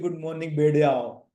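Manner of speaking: low, bored "good morning, बैठ जाओ"; monotone teacher brushing off the class; flat dismissive greeting. Shown as a demonstration. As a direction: mumble it and move on. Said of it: "ऐसा नहीं".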